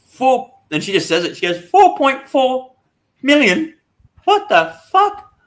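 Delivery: very high, slow, disbelieving squeal; stunned shriek. Retold or imitated. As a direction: gasp it out like she can't believe the number. Acts girl shocked at earnings.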